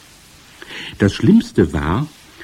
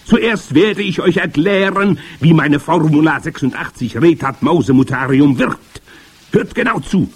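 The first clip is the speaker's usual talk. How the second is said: high, loud witch declaiming; imperious high-pitched witch voice; grand witch; 9 semitones higher, 7 dB louder than usual. A narrator's reading. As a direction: proclaim the magic plan to your followers. Grand witch addressing the congress.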